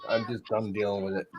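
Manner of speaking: breathy whisper under his breath. Real, not acted. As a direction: whisper it to yourself. Pained whisper over the cable.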